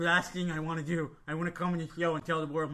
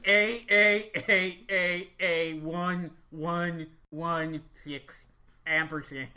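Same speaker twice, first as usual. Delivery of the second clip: slow, drawn-out recital of the name; 3 dB louder, much slower than usual. Acted. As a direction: spell it out slowly and grandly. Character spells his long name.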